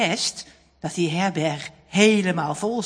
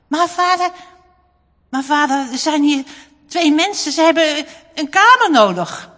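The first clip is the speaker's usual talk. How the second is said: louder, higher urgent plea; pleading boy; 7 semitones higher, 8 dB louder than usual. A narrator's reading. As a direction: beg father quickly for a room. Boy pleads with busy father. (jongen smeekt zijn vader dringend, luider)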